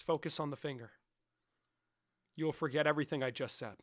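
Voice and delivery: lightly voiced hypnotist; mock hypnotist. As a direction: lull them under like a stage hypnotist.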